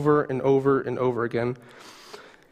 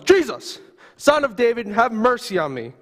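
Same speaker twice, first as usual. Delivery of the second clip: screaming out; 6 semitones higher than usual. Acted. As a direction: cry out to be heard over a crowd. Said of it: "you start screaming at the top of your lungs".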